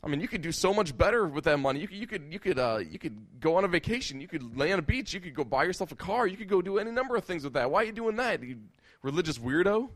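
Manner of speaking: rising, high, scornful questioning; mock them as a religious weirdo; ridiculing critic. Critics ridiculing someone raising money for missions, scornful.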